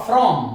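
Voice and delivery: from with the R sounded; R pronounced. Shown as a demonstration. Teacher demonstrates the rule to students, R pronounced in from. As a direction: say "from" with a clear R after the F. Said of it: "तो आर का उच्चारण होगा".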